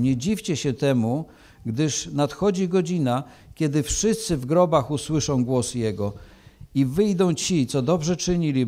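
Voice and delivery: measured, solemn Gospel reading; scripture reading. Acted. Preacher reading John to the church, solemn and measured. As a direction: read the Gospel to the congregation with gravity.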